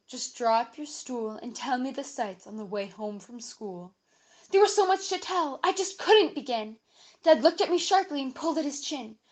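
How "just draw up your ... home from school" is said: calm. A narrator's reading. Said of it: "But Dad said quite calmly".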